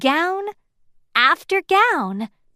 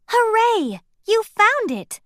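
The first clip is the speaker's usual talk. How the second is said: high, loud hooray; cheerful cheer; 11 semitones higher, 4 dB louder than usual. A narrator's reading. The clue cheering the finder, bright and loud. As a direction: celebrate the find.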